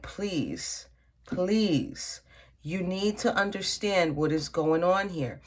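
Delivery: mild, soft-spoken plea; lightly acted begging, drawn-out please. Tarot reader voicing the woman on the card, mildly begging. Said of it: "almost in a begging posture".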